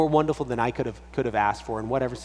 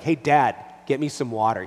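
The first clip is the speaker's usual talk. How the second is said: put-on louder, demanding child; mock demanding child voice; bossy demand; 4 dB louder than usual. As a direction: order it like a bossy kid. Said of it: "But when he's like".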